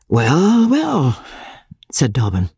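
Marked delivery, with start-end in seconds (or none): 0.1-1.2 high, drawn-out placating "well, well"; soothing and indulgent, pitched up; good-natured. A narrator's reading. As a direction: humour an angry friend. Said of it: "still good-naturedly".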